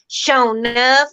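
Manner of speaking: a quick Southern US accent demo. Shown as a demonstration. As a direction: Show enough drawled in a put-on Southern American accent. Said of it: "you gotta do the accent".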